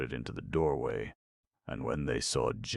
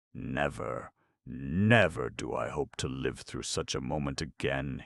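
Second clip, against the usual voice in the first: groaning. Acted. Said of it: "he groaned".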